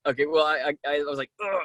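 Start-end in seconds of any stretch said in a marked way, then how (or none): 1.4-1.6 retold groan of annoyance; imitated exasperated groan; frustrated groan. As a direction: groan as if mad at your own slip. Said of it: "I was so mad".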